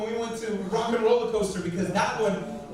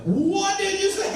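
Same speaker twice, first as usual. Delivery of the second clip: indignant shock; 9 semitones higher, 4 dB louder, slower than usual. Retold or imitated. Dad shocked at back talk.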